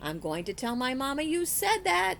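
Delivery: high, loud tattling shout; boy shouting a tattletale threat, high and loud. Acted. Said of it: "shouted Stevie".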